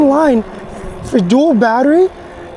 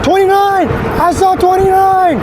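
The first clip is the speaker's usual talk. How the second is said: excited; 7 semitones higher than usual. Real, not acted. Excited at hitting top speed.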